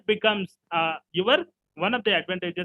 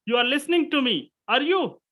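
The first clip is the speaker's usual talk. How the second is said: lifted, higher pitch with "are you" as a tag; questioning tune; 4 semitones higher than usual. Shown as a demonstration. Teacher demonstrating a confirmation question, questioning tune on "are you". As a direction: raise "you are listening to me", then add a high "are you?". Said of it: "rising tone for questions, okay, confirmation".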